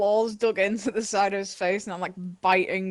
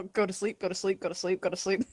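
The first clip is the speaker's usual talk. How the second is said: soft hushing; 6 dB quieter, faster than usual. Acted. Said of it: "That was a very good zombie impression".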